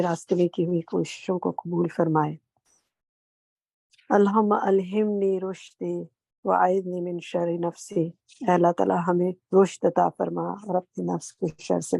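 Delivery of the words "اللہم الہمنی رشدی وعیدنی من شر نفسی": recited prayer. Acted.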